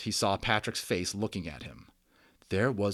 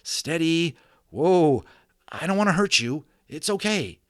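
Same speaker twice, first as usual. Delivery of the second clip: high, loud calming call; soothing like a cowboy; 8 semitones higher, 7 dB louder than usual. Acted. Omri calms the little cowboy and horse, cowboy-style. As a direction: settle them like a cowboy gentling a horse. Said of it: "like the cowboy himself".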